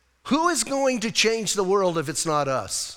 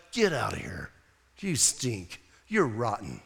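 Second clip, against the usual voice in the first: disgusted dismissal; 9 semitones lower, 6 dB quieter than usual. Pretend. Preacher scolding his own flesh.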